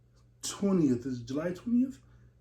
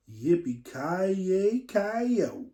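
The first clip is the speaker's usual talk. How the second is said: cowboy whoop; 2 semitones higher, much slower than usual. Pretend. Cowboy yell.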